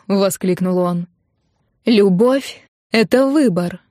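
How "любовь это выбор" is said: срывающийся голос. A narrator's reading. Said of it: "срывающимся голосом сказала я".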